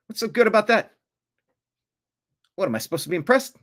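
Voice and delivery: scoffing at a celebrity impression, incredulous and mocking; mocking disbelief. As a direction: sneer at the impression like it's nothing.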